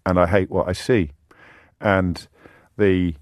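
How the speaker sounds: subdued confession in halting phrases; heavy-hearted sincerity. Real, not acted. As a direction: speak from the heart, with long pauses. Heartfelt answer on feeling unhappy.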